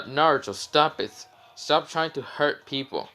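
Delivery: half-hearted imitation of screaming at someone; mild mock scream. Tamari begging Naruto to stop, mild mock scream. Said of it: "Tamari screams at Naruto".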